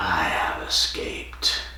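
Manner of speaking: rough, gravelly, hushed whispered voice. Retelling a phone call in a story where the creature speaks, gravelly voice. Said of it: "And then you hear that gravelly voice".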